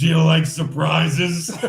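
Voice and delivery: slow, husky come-on voice. Quoting a woman's line for the end of a bad date, husky voice. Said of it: "in a husky voice say".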